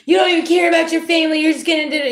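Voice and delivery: high, loud, fast accusing relative; guilt-tripping family. Retold or imitated. Family scolds you for not coming, shrill-free loud high accusation. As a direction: hurl the guilt trip at them.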